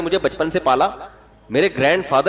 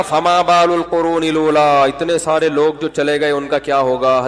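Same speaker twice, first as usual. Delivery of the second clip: Pharaoh's question; 3 semitones lower than usual. Acted. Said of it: "فرعون نے کہا".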